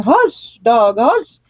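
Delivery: a light, quick hush at the dog; mock scolding the dogs. Hushing her dogs during the livestream, mild mock scold. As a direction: shush the dog, half joking. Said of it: "I will try to refrain from saying".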